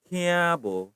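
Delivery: tiabo with aspirated "th"; pronounced with H. Shown as a demonstration. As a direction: puff of air after the t in tiabo. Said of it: "pakai H ya".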